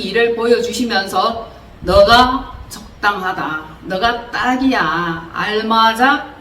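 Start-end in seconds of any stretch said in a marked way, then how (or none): 1.8-6.3 slow, gentle assurance; slowly, as if God reassures. Retold or imitated. Preacher voicing God's gentle assurance to her, slow and gentle. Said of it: "그렇게 알게 해주시는 거예요".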